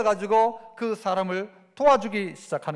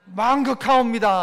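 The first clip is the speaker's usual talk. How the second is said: courtier's grateful reply; 5 dB louder than usual. Acted. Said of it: "하는 거예요".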